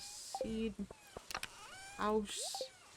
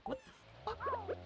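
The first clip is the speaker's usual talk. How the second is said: baffled slow exclaim; 6 dB quieter, slower than usual. Real, not acted. Confused by game.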